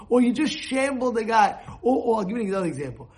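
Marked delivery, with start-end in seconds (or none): none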